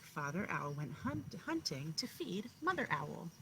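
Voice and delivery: storybook narration, each line weighted; story reading to children. Acted. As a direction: read it like a bedtime picture book to kindergartners. Teacher reads picture book aloud.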